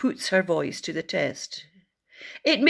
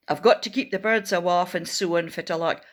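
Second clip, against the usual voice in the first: Doric accent line said a bit faster; Scottish Doric farmer, brisk; faster than usual. Shown as a demonstration. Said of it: "I wonder if you know what that means".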